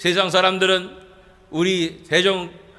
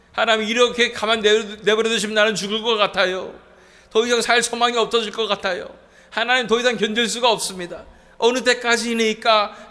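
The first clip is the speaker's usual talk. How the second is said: crying out to God. Acted. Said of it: "라고 외치는".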